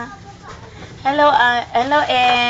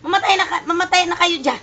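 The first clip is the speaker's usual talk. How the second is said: retold angry yell; 6 semitones higher than usual. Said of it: "Sabi niya".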